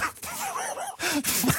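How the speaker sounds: laughing. Real, not acted. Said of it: "I heard you giggle there".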